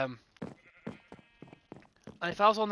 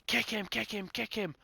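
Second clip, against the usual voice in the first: mock whiny demand; 6 semitones higher, 4 dB quieter than usual. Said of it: "going mad saying".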